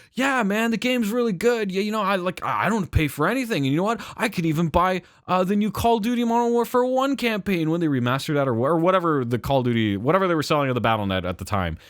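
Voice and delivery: lightly voiced smug younger self; bragging to friends. Telling cousins at Christmas he pays nothing, smug brag. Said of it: "I'd be like".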